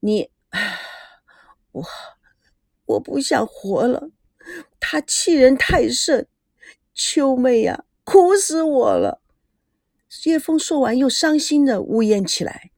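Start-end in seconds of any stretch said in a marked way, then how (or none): 0.0-9.2 sighing, faint and fading, slow at the end; half-breathed words of someone too weak to go on; a mild fading voice, each phrase drawn out; faint, barely breathing. Acted. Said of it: "气若游丝地说".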